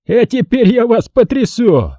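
high, drawn-out threatening shout; menacing cry. A narrator's reading. Colonel turning on the men who shook him, menacing. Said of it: "закричал он грозно".

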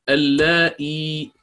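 اللائي said slowly, the long la stretched; drawn-out Quranic word. Shown as a demonstration. Teacher demonstrating اللائي slowly to students. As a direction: spell out اللائي slowly, syllable by syllable. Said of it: "ثم حذفت الهمزة تخفيفًا".

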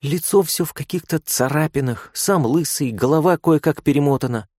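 put-on critical young nurse. A narrator's reading. Nurse inspecting the patient's face, mildly unimpressed. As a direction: list his flaws coolly.

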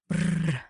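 short, rolled "brr" of cold; a small acted shudder sound; shivering brr. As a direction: shudder it out briefly. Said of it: "Чего ты дрожишь?".

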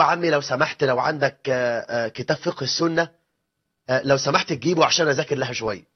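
low, soft meek request; meek fiancé stalling. Retold or imitated. Fiancé stalling so he can stay late, low and meek. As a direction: ask the uncle ever so meekly. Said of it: "فيقول له".

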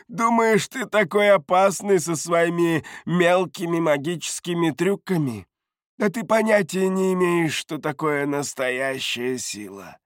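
high-pitched mocking voice; derisive taunt. A narrator's reading. Бардак mocks the narrator's magic tricks, high derision. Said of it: "и рассмеялся".

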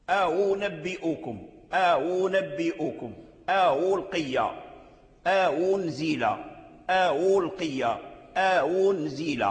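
slow أنبئكم، ألقي، أنزل with hamza softened between hamza and waw; drawn-out أنزل with a waw-like onset; hamza eased toward waw. Shown as a demonstration. Teacher models hamza eased toward waw. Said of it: "هذا لحن".

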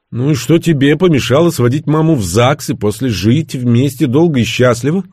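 high, loud, insistent questioning; challenging question. A narrator's reading. Son asks why father never married mother, challengingly.

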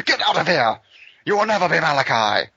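angry shout. Pretend. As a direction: throw him out in a rage. Director throwing actor out.

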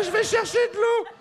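a sudden comic squeal; squeaky mock voice. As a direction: pop the line up into a silly falsetto.

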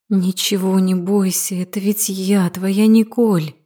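slow, gently coaxing reassurance; drawn-out words of comfort; reassuring. Acted. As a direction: take your time and soothe a nervous sister. Sister reassures a hesitant girl.

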